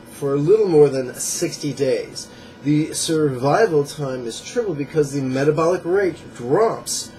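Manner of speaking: measured book-passage reading; emphatic nonfiction read-aloud. Acted.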